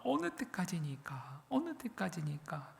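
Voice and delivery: soft, slow plea; softly drawn-out lamenting question. Acted. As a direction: quietly lament to God. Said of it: "이렇게 탄식하는 것은".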